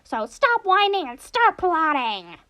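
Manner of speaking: high, theatrical mascot villain voice; Monokuma impression. Gamer echoing a game line, high hammy mascot voice. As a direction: play it gleeful and hammy, stretching the final words. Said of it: "the Monokuma impression".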